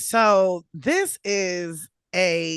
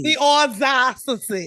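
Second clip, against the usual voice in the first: put-on Valley Girl quote through laughter; laughing Valley Girl; 4 semitones higher, 4 dB louder than usual. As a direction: giggle out the line, Valley Girl style. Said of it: "this Valley Girl accent".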